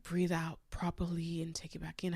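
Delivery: hushed, soothing imitation of auntie; softly steady someone who is panicking; calming coach. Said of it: "Her voice is so calming".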